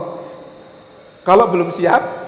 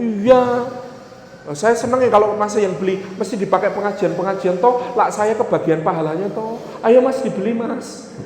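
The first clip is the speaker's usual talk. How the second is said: lightly voiced seller, pitched up at first and at the end; eager house seller; 3 semitones higher than usual. Seller urges young man to buy her house, lightly acted eager coaxing. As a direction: coax the buyer, a touch insistent. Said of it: "ada orang nawarin rumah".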